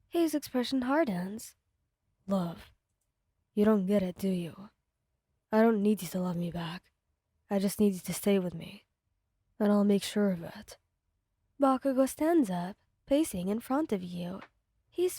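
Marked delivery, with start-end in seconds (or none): 2.3-10.8 lower, menacing possessive voice; possessive villain. Acted. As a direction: claim her, cold and low. Bakugo voiced by narrator.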